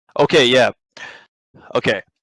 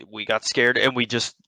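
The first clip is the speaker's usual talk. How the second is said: usual speaking voice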